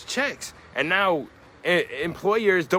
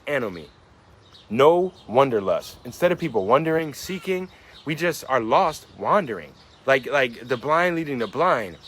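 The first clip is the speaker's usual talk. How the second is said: spoken-word poem. Acted. Recites spoken-word poem lines.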